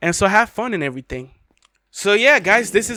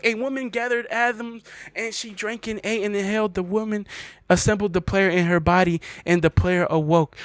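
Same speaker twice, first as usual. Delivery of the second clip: reading the poem aloud with mock gravity; dramatic poem reading; 4 dB quieter than usual. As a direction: recite it like a solemn prophecy. Reads the End Poem aloud.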